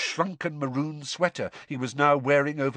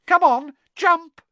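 high, loud taunting mermaid; malicious giggle; 9 dB louder, slower than usual. A narrator's reading. Mermaid daring Harry to jump for his broom, maliciously gleeful. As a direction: goad with mean glee. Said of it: "she giggled maliciously".

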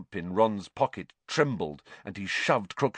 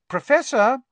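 higher, louder call; second, louder try at waking teacher; 8 dB louder than usual. Acted. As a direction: raise your voice to wake him. Calling a sleeping teacher louder.

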